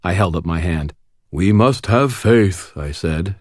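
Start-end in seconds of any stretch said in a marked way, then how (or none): 1.3-2.7 slow, higher-pitched mock-solemn imitation; mock earnest declaration, stretched slow; Michael. A narrator's reading. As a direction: imitate a pious friend, drawn out. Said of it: "doing my best to imitate Michael's voice".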